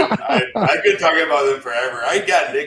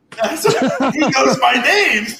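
high, slow, laughing; laughing fan gush; 11 semitones higher, 7 dB louder, slower than usual. Pretend. Laughing along about the band knowing his name, high and slow.

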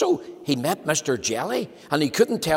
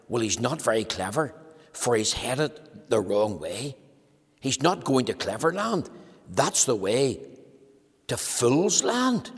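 dismissive worm. Acted. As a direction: drop it as a wry punchline.

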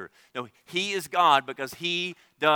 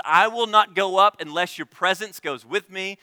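pleading Moses; 6 semitones higher, 7 dB louder than usual. Acted.

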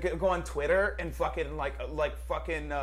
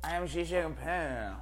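cartoon voice like a South Park character; mock a world leader in a silly cartoon voice; lightly voiced South Park style leader; cartoonish Xi Jinping impression; slower than usual. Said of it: "Sounds like a South Park character".

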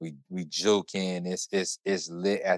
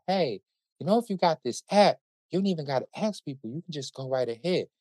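much higher-pitched imitation of a woman; helpful stranger; 8 semitones higher, faster than usual. Stranger in the airport line offering a tip, high imitated voice.

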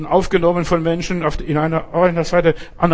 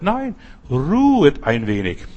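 calm refusal; slower than usual. Acted. Jesus refusing new mission.

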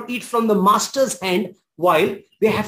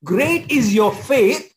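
solemn Jesus; slower than usual. Retold or imitated. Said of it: "He says".

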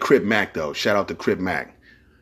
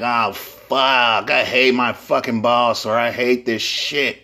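grumbling worker; slower than usual. Retold or imitated.

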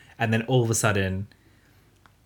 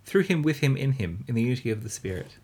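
hint of a priest intoning. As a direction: intone it like mass, a touch mocking. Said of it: "me quoting the maths".

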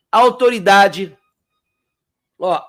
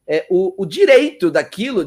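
ordinary talk, nothing marked

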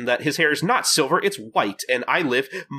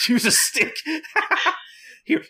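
playful high squeak. Retold or imitated. Voicing character with laugh.

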